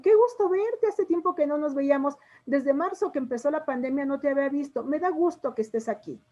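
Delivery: delighted greeting. Shown as a demonstration. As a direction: greet an old friend with real joy. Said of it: "¿Estoy manifestando emociones". (saludo alegre y emocionado)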